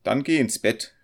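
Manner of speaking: student's acted exclamation; calling out. A narrator's reading. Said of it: "rief der Student".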